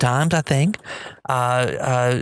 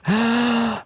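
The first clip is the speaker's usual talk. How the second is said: gasp; 9 semitones higher than usual. Retold or imitated. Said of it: "Peggy Normandin looks at me and goes".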